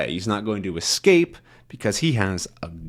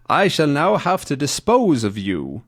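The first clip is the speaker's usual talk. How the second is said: higher-pitched mock German threat; German accent; 4 semitones higher than usual. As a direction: pronounce sentence in a put-on German accent. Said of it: "that's my German accent again".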